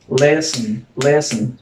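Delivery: listen said slowly in two beats, LIS-ten; two syllables. Shown as a demonstration. Teacher showing students the syllables in listen, two distinct beats. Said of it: "Hay dos sílabas".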